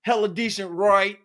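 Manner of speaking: mock Inglewood slang delivery; Inglewood homeboy accent. Friend imitating their homeboy, in an Inglewood accent. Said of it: "from Inglewood".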